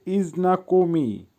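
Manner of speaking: ইজনাকোমি broken up as ইজ-না-কো-মি; careful pronunciation demo. Shown as a demonstration. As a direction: spell out ইজনাকোমি by syllable. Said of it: "উচ্চারণ হবে". (ইজনাকোমি ভেঙে স্পষ্ট উচ্চারণ)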